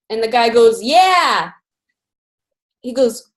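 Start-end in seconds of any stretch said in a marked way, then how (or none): 0.8-1.5 drawn-out acted shout; mock distant holler; calling back. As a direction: answer as if from across the yard. Drunk man calls back from afar.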